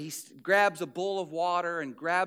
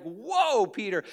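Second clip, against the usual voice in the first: a stunned, raised "whoa" settling on the name; shocked; slower than usual. Retold or imitated. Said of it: "like, shocked".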